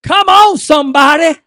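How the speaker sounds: shouted, rising revival preaching; fiery pulpit cry; preaching at full force. Acted. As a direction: preach it hard and loud to the congregation.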